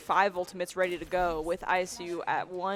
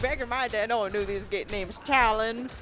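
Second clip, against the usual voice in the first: put-on very old man; 2 semitones higher than usual. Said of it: "Very old man with no teeth".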